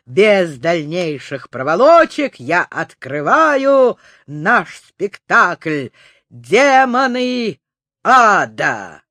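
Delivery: slow, grand announcement of a title; grand show announcer. Acted. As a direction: announce it like a circus host. Opening the show as ringmaster.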